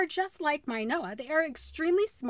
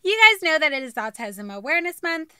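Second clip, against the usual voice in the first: intro read; 5 dB louder than usual. Acted. Presenter read.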